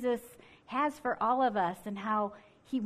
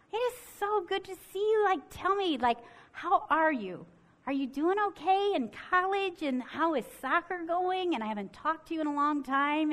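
put-on much higher, bubbly hello to an old friend; cheery greeting; 6 semitones higher than usual. Narrator greeting a former classmate of her son, bright and delighted. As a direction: gush warmly over seeing her.

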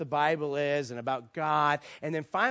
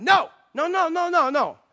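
high, loud string of denials; imitating an exasperated man's protest; emphatic refusal; 10 semitones higher, 8 dB louder than usual. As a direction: cut them off with rapid insistent objections. Man loudly rejects the answer.

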